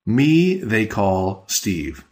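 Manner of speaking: slow, word by word; slow literal gloss. Shown as a demonstration. Teacher giving the literal translation slowly. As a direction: say each word apart, unhurried.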